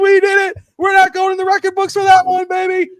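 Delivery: high, loud jubilant yelling; retold screaming celebration. Fan jumping on the couch after the win, high loud cheer. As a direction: celebrate like the team just won it all. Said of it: "I was screaming".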